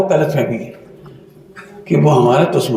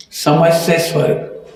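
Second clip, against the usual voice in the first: slow title; slower than usual. Shown as a demonstration. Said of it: "book title repeated".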